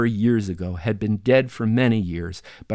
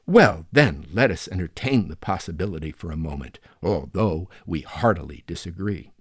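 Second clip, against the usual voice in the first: mock-lofty lecturing tone, lightly done; supercilious professore; 3 dB louder than usual. Narrator mocking his sister as a haughty professor. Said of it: "affecting the tone of a supercilious professore".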